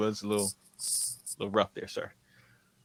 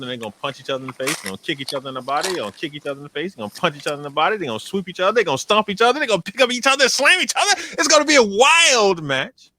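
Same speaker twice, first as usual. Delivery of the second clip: building hype; 5 semitones higher, 7 dB louder, faster than usual. Acted. Hyping the grudge match.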